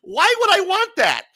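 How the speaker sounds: high laughing question; giggling disbelief. Real, not acted.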